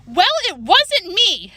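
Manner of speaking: mild yell, high and drawn out; yelled denial. A narrator's reading. Jane denies writing the insult, mildly yelled. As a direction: protest it slowly and high, lightly yelled. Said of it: "Jane yelled".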